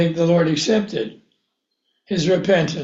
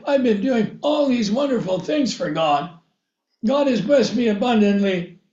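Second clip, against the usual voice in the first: a rising, quickening mock protest that climbs higher at the end; hammed-up royal indignation; indignant king; 5 semitones higher than usual. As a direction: play the offended king working himself up. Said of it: "he would say to the priests".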